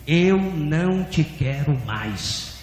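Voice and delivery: very slow, measured pronouncement; voice of God repeating. Retold or imitated. God rejecting a pastor, slow solemn repetition. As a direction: stretch each word, solemn and restrained. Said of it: "E a voz repetiu".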